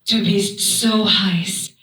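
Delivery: slow German seduction with a rising finish; German pickup line. Shown as a demonstration. Comedian shows off her German pickup line, mock-seductive. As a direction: deliver a drawn-out German come-on. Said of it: "hear my German pickup line".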